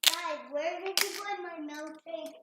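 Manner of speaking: calling out loudly from afar; yelling across the room. Real, not acted. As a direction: shout it to the next room. Child calls from another room.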